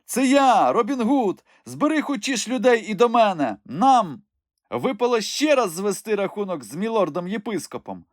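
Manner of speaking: high crone voice, urgent; disguised Robin. Acted. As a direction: give orders still in disguise. Robin still in woman voice. (високий старечий голос, квапливо)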